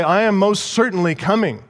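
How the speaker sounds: "I am most certainly coming" with a lift on "am"; emphatic. Shown as a demonstration. Preacher paraphrasing the promise with firm emphasis. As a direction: press on "am" and "certainly". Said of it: "It's emphatic".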